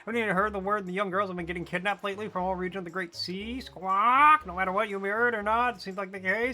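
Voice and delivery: high bird voice breaking into squawks; a chatty bird gossiping to the pirate; talking bird postman. Acted.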